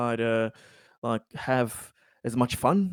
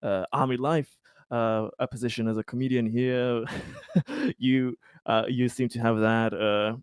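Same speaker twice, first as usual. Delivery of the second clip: light teasing offer with little laughs; kidding, with a chuckle in it; joking. Acted. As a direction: say it half-jokingly, chuckling mid-sentence. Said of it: "he's kinda, like, joking".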